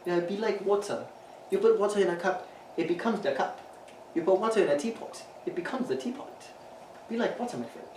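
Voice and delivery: lightly put-on accent, Bruce Lee quote; a hint of a wise martial arts master; Bruce Lee impression. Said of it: "Why is he doing a fucking British accent".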